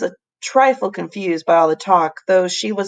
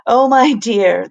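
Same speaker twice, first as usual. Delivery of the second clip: fond chuckle; 4 semitones higher, 5 dB louder, slower than usual. A narrator's reading. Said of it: "the professor laughed".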